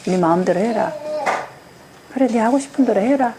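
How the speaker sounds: giving up, voice dying away; mild defeated sigh of a parent; resigned fading. Shown as a demonstration. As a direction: say it like a parent who has quit. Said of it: "이렇게 하고 확 꺼집니다".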